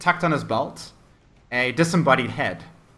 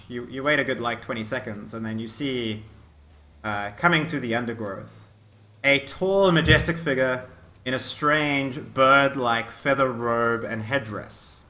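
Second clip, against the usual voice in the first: deliberate descriptive storytelling; game master narration. Acted. Game master reveals a strange figure to players, measured narration. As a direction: unveil the figure phrase by phrase, with pauses.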